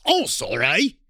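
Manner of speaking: lightly mangled British accent; botched UK accent. Shown as a demonstration. Apologizing to UK listeners, botched English accent. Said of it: "so our U K listeners".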